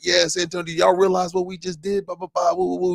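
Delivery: hyped mic voice. Retold or imitated. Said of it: "Danny Green's on the mic".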